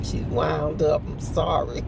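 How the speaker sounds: slow, retold admission; sheepish apology. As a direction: own up slowly to the mom.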